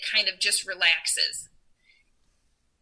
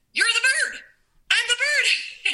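mock quoting; 12 semitones higher than usual. Friend quoting God, high.

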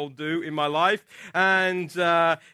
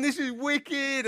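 excited; 5 semitones higher, 5 dB quieter, slower than usual. Retold or imitated. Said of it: "He got so excited".

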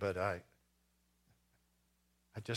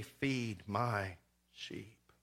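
slow gentle Jesus; 3 semitones lower, 5 dB quieter, much slower than usual. Acted. Jesus answers Peter the third time.

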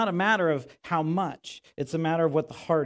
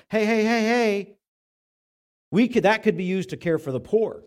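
louder, higher, pushy disciples interrupting; mock scolding; 6 semitones higher, 5 dB louder than usual. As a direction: butt in and set Jesus straight. Disciples scold Jesus, acted.

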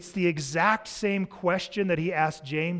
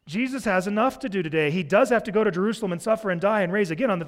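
annoyed crowd; 3 semitones higher than usual. Retold or imitated. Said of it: "the people are like".

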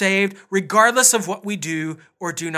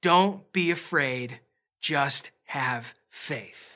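slow, hushed, lower reassurance; gentle reassurance; 5 semitones lower, 6 dB quieter, much slower than usual. Retold or imitated. Jesus to the grieving father, gently reassuring. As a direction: say it softly with long pauses. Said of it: "and he says".

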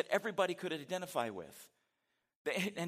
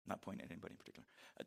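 whispered sneer; 6 semitones lower, 10 dB quieter, faster than usual. Acted. Mocking Pharisee list of sinners.

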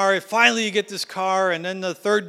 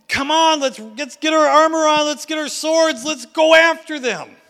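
rallying speech; 4 semitones higher than usual. Retold or imitated. Joshua urging the people to take the land, rising and rousing. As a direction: fire them up to fight. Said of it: "Joshua comes in and says".

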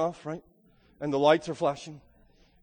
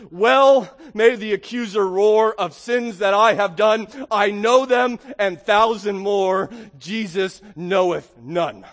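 hymn quote recited; 6 dB louder, slower than usual. Acted. Quoting a hymn with force.

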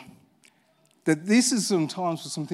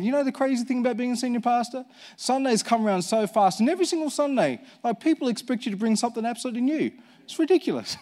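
higher and fast, half-laughing complaint; lively retold quote; 6 semitones higher than usual. Pastor retelling his chat to another church, lightly mock-exasperated. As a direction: rattle it off like a swamped pastor.

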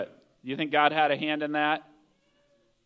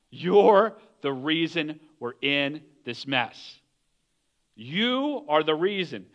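slow, low, deliberate blame; angry accusation; 4 semitones lower, slower than usual. Acted. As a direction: play a crewman accusing, each word drawn out. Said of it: "angry with Jonah".

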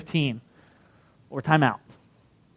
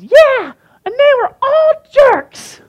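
much higher, louder, slow squeaky woman; lady's voice; 7 dB louder, much slower than usual. Retold or imitated. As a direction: squeak it like a sassy lady. Lady answers comedian.

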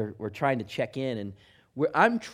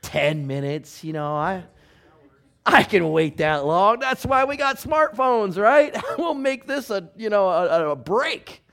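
inner voice; 3 semitones higher, 7 dB louder than usual. Retold or imitated. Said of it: "and you think".

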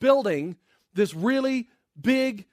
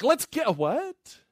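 higher-pitched mock double take; stunned Haman; 5 semitones higher, much slower than usual. Haman hearing the king's order, a stunned double take. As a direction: start confidently, then catch yourself. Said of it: "can you imagine Haman at this moment?".

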